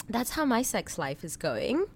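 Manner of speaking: eating while talking; talking through a mouthful of orange; mouth full. Real, not acted. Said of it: "Sorry, I'm eating an orange".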